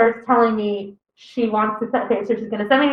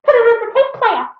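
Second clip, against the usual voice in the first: stern mom; 12 semitones higher than usual. Retold or imitated. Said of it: "She pushes the tape towards me".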